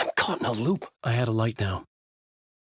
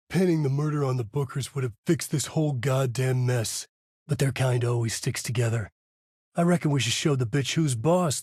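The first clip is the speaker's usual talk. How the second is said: leering; 3 semitones higher than usual. Acted. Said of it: "Mulligan leered".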